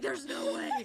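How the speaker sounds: high, breathy gasp of disbelief; can't believe your luck, hushed and high; stunned disbelief. Retold or imitated. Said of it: "I was like".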